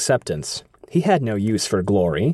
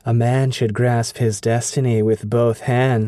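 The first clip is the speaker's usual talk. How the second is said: breathy purring seductress. Acted. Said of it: "she said, smiling".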